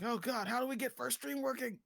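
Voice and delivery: high, loud frantic wail; mock panic. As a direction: cry out in exaggerated tech despair. Mock panic over broken stream.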